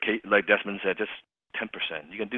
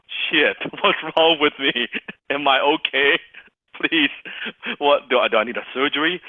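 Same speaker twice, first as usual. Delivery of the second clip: higher, louder mock panic through laughter; hammed-up anxious questions; worried patient; 5 semitones higher, 4 dB louder than usual. Patient reacting to a sighing doctor, mock worried. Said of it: "imagine you're seeing a doctor".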